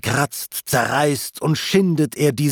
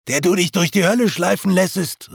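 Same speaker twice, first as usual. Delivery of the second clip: raised, urgent call, pitch higher; 6 semitones higher, faster than usual. A narrator's reading. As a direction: call out to the passing poet. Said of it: "rief er". (laut rufend, höher)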